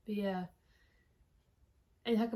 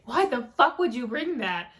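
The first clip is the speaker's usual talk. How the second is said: retold indignation; 7 dB louder than usual. Repeats Annie's reaction harder.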